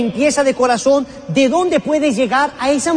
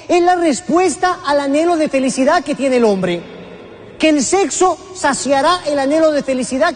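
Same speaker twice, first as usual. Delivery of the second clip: prédica gritada; 4 semitones higher than usual. Acted. Predicador grita la idea.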